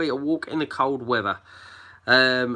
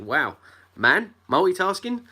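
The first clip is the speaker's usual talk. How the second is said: mock amazed coworker; 6 semitones higher than usual. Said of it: "a woman turned around to me and said".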